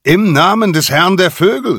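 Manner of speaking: high, loud commanding cry; shrill bird herald's halt; falcon's command. A narrator's reading. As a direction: order them to stop. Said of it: "rief der eine".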